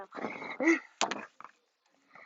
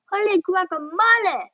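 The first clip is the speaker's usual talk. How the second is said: high, startled cry of wonder; surprised exclamation; 6 semitones higher than usual. A narrator's reading. Kitten startled by his own reflection, exclaiming high. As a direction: blurt it at the mirror, amazed.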